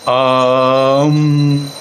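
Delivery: आम with a short आ closed at once; short aa demo. Shown as a demonstration. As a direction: say आम, short आ snapped shut. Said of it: "छोटा आ बोलना है".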